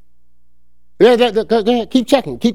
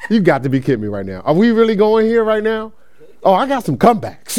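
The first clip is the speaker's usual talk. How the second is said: mock indignant face. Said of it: "my face probably like".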